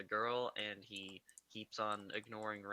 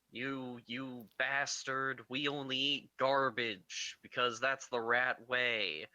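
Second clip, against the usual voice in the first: mock rat dad; 3 semitones higher, 4 dB louder, slower than usual. Dad rat voiced in retelling.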